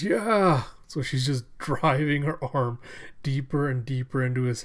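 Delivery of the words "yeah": high, loud shout of effort; fierce battle shout. Retold or imitated. Alita driving her arm into his head, fierce shout. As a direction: drive it home with a yell. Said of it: "She goes".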